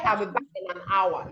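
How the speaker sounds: quick, level "back in an hour"; flat tone. Shown as a demonstration. Teacher showing our own accent, flat tone. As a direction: run "I'll be back in an hour" quickly without melody. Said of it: "you are using a flat tone".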